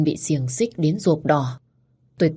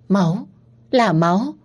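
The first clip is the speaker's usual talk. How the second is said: startled fear, pitched higher; frightened; 4 semitones higher, 3 dB louder than usual. A narrator's reading. Narrator sees blood on their hand, frightened. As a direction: blurt it in alarm at the sight. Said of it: "Cảm giác sợ hãi".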